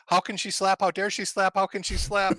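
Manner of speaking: put-on high, loud Indian-accented screaming. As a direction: shriek it in a broken Indian accent. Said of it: "in a broken Indian accent is scream".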